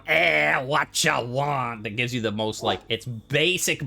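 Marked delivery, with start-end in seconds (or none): 0.1-1.8 slow, gruff diner cook in a loud bark. Retold or imitated. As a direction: grumble it like a tired smoker behind the counter. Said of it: "the overweight smoker working at a diner going".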